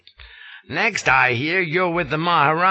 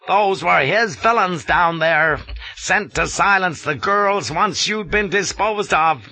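louder, higher indignant lecture; 8 semitones higher, 4 dB louder than usual. A narrator's reading. Colonel defending the Maharani to Flashman, indignant. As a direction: defend her honour, offended. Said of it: "He was in a fine indignation".

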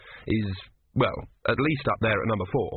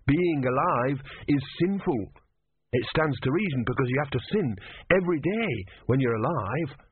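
slightly higher, earnest monk voice; worried, sincere young novice; 4 semitones higher than usual. Acted. Brother's voice.

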